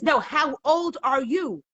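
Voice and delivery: slow, emphatic repeat of a question; insistent judge. Acted.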